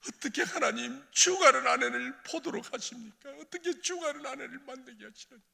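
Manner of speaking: high, loud lament; anguished reproach to God. Retold or imitated. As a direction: hurl the question at heaven. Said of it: "얼마나 하나님께 원망했는지". (하나님께 울부짖는 원망)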